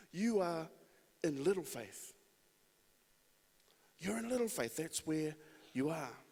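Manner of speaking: lightly voiced Jesus telling Peter where he stands; Jesus gently speaking. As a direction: speak kindly, placing him on the spectrum. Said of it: "What I hear is a positioning statement".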